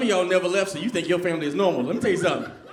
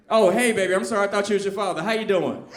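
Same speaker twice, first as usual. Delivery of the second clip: sweet mama voice. Retold or imitated. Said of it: "by the way she be answering the phone".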